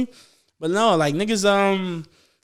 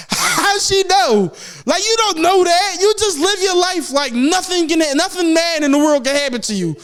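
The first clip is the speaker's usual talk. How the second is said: incredulous rant; 9 semitones higher than usual. Real, not acted. Incredulous rant about lady.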